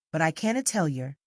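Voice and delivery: a light Derbyshire dialect refusal; Derbyshire vernacular. Acted. Keeper refusing the lady, in mild Derbyshire dialect. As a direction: slip back into broad Derbyshire. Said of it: "with a return to the vernacular".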